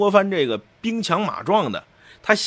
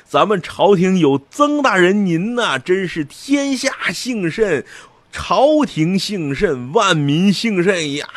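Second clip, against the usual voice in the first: fawning officials; 3 semitones higher than usual. Retold or imitated. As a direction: gush over the great man like a toadying official. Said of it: "毕恭毕敬，前倨后恭的啊". (地方官员对曾大人谄媚奉承)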